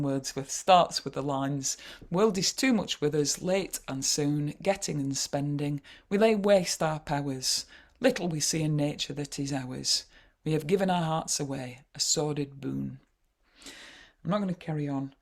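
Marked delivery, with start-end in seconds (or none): 2.1-13.0 poem recital. Shown as a demonstration. Reciting Wordsworth poem aloud.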